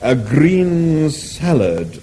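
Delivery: "green salad" drawn out very slowly; disapproving. Acted. The animal echoes Arthur's order, slow and disapproving. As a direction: repeat it with disdain.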